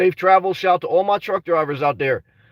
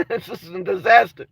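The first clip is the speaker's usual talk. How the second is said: laughing it off. Real, not acted. Laughs through the line.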